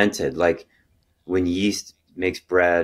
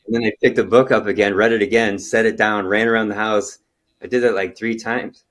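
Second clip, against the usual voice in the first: excited; 3 semitones higher, 4 dB louder than usual. Retold or imitated. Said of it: "I was so happy".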